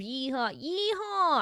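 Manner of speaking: mock Texan accent cheer; a playful Texan yeehaw. Reading chat's Texan yeehaw in accent. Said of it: "Velcy Texan confirmed".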